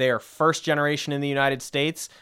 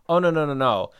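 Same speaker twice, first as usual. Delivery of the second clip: a brisk, lightly voiced no-no-no, a bit louder; mock stuffy British correction; dismissive British official; 4 semitones higher, 6 dB louder than usual. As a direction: brush off the idea like a condescending official.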